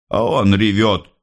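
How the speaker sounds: plain reading voice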